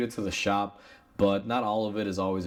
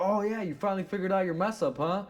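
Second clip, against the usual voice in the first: much higher, hammed-up sneering customer; mocking the customer; 9 semitones higher than usual. Mechanic acting out the flailing customer's taunt, hammed-up sneer. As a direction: overplay his taunt like he's waving his arms. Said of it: "flailing his arms, like".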